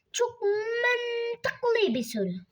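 slow, high fake-crying sarcasm; sarcastic mock sob; mock whine. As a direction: whimper it out in mock despair. Sarcastic remark on own question.

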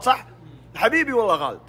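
ordinary delivery

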